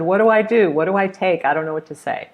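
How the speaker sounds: a touch of fretting; mildly flustered. Retold or imitated. Friend asking teacher what to take to party, mildly flustered. Friend anxious about dinner invitation.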